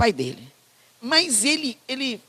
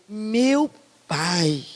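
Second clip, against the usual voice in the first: "Meu pai" said tenderly, eyes shining; tender address. Shown as a demonstration. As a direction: say "Meu pai" with loving warmth. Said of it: "O olho ter brilhado".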